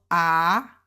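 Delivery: AH in Mandarin first tone; AH held out in one long tone. Shown as a demonstration. Teacher showing learners the first tone of AH, first tone. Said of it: "which is first tone".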